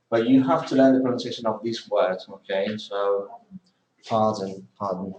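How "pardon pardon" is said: pardon said with the D and the N joined together; pardon, D running straight into N. Shown as a demonstration. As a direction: pardon with no vowel between the d and the n. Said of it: "join the D and the N".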